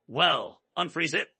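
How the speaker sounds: a high, sudden shriek. A narrator's reading. Elena shrieking at Julian to fix it, high shriek. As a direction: shriek the demand in panic. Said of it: "she shrieked".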